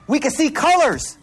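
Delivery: retold wonder, pitched high; imitated amazement. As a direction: marvel at it like an awestruck friend. Imitating friend marvelling at colors.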